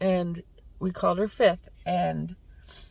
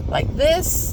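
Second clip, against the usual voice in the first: mock crying, pitched way up; imitated crying; 10 semitones higher, 4 dB louder than usual. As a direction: imitate crying like a baby, high. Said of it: "I'm crying like a baby".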